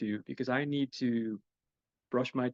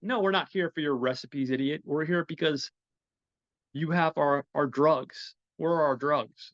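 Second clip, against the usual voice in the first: mock thug demand; 3 semitones higher, 4 dB louder than usual. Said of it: "they're like".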